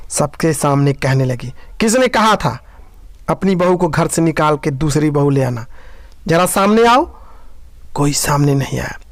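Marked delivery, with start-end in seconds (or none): 1.8-7.2 challenging. Acted. सास सबके सामने ललकारती है.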